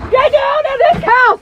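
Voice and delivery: shouted high and loud; angry shout. Real, not acted. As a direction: order him out in a rage. Furious argument, ordering him out.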